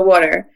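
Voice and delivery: Philly "wooder", the local way. Shown as a demonstration. Guest echoing the host's Philly "wooder". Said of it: "about the".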